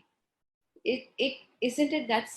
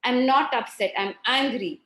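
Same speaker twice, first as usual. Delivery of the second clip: mild retold outburst, louder at first; lashing out; 2 semitones higher, 5 dB louder than usual. Child lashes out at the mother, mildly imitated angry retort. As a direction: lash back lightly, as if quoting an upset child. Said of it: "she would lash out to me".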